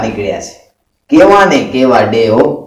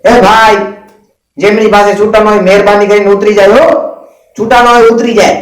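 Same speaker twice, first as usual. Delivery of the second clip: conductor shouting; 5 semitones higher than usual. Retold or imitated. Bus conductor shouts at passengers about change, mock yell. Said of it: "conductor જોર જોરથી બૂમાબૂમ કરે".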